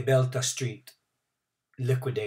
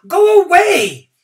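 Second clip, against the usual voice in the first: louder shout; 16 dB louder, slower than usual. A narrator's reading. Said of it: "Many shouted at the old man".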